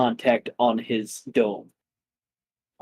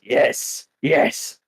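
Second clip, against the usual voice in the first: whisper. Acted. Whispered dragon reply.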